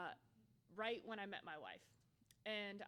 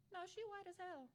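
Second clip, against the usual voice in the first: high, sassy comeback; sassy retort; 9 semitones higher than usual. Retold or imitated. Answering people who ask if her wife is black, sassy. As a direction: toss it off with attitude.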